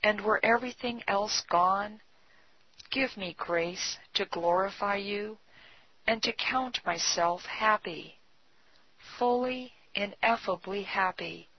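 softly read, reverent prayer; hushed devotional reading with measured pauses. A narrator's reading. A believer giving himself up to the Lord, praying softly. Reads a written prayer aloud.

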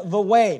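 "the way" with weight on "way"; stress on way. Shown as a demonstration. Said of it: "Notice the emphasis is on this way".

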